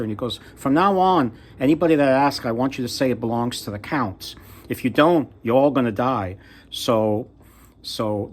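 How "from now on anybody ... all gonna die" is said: acted threat. Cat ordering field workers to lie to the king, mock threatening. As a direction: lay down the law, mildly menacing.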